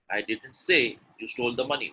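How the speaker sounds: emphatic "say" mid-sentence; stress on say. Shown as a demonstration. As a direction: put the weight on "say". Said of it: "when I stress on say".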